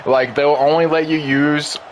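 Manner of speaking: talking with the hiccups; words broken by hiccups. Real, not acted. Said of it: "excuse me, I got the hiccups".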